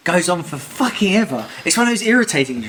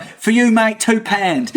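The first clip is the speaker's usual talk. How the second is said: a light Cockney stallholder, a bit higher; Cockney accent; 6 semitones higher, slower than usual. Retold or imitated. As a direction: play a Cockney market trader quoting a price. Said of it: "Why do they speak Cockney?".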